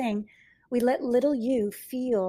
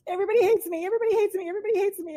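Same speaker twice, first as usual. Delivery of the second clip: higher, lightly mimicked plaintive client; hurt client; 9 semitones higher, 4 dB louder, much faster than usual. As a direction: let her hurt thought come out pitched up. Client voices painful thought.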